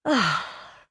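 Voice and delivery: long released sigh; contented sigh. A narrator's reading. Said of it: "she sighed".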